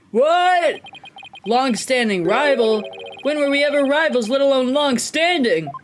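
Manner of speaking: lightly acted disbelief; mock incredulity. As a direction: open on a high startled yelp, then question it. Acted baffled reply to rival.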